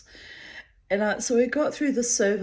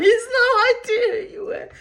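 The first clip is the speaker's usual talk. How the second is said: laughing; 14 semitones higher, 7 dB louder than usual. Real, not acted. Laughing at mother's mistake.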